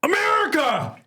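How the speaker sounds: very high, loud call from far off; distant patriotic yell. Retold or imitated. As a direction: holler it across the store. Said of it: "some dude goes".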